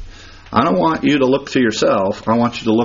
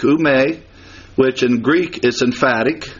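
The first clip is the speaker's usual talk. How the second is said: ordinary talk, nothing marked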